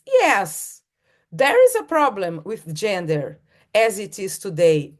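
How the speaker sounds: a high, loud "Yes", then a ringing declaration; rallying quote. Retold or imitated. Speaker quoting Adichie to the audience, rousing declaration. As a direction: proclaim it like a manifesto.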